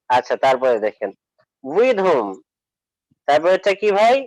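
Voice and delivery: normal talking voice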